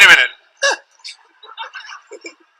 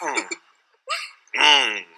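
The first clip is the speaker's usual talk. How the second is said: stoned mumbling; 8 semitones lower, 11 dB quieter, slower than usual. Retold or imitated. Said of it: "They go".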